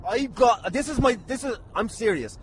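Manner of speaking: ordinary delivery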